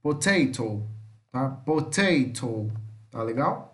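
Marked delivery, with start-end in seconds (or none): 0.0-0.9 Potato with both O's as "ou"; Potato modelled with English O. Shown as a demonstration. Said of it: "tem esse som de O". 1.5-2.7 slow Potato, "pou-TEI-tou"; Potato slowly, with English O sounds. Shown as a demonstration. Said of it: "tem esse som de O".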